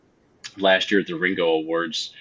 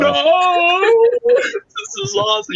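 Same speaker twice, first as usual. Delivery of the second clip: very high, loud fanboy squeal; hammed-up ecstatic freak-out; spazzing out; 8 dB louder, much slower than usual. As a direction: stretch the first word into a long, high yell. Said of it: "so I totally spazzed out".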